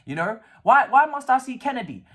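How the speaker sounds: rising exasperation; exasperated. Real, not acted. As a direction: vent at the bench picks. Exasperated about bench choices.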